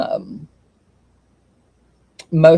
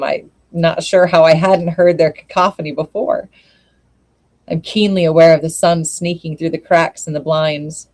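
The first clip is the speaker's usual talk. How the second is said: measured first-person story reading; literary audiobook-style narration. A narrator's reading. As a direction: read it aloud evenly, with pauses between sentences. Reads a story aloud.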